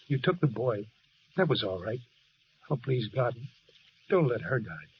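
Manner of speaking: low, hushed pleading to God; desperate prayer. Acted. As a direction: beg God to spare her life. Husband prays for his wife.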